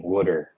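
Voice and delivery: Wooder said the Philly way, with a short oo; Philly pronunciation. Shown as a demonstration. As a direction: say Wooder like a Philadelphia local. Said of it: "that's a Philly thing".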